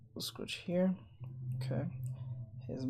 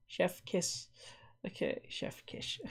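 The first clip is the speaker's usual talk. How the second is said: whisper; 7 dB quieter, slower than usual. Real, not acted. Greeting a viewer softly.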